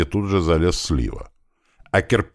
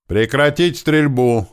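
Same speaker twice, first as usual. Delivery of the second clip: breathless slow shout, higher; out of breath; 8 semitones higher, 3 dB louder, slower than usual. A narrator's reading. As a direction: yell it while running, gasping. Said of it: "задыхаясь, закричал я на ходу".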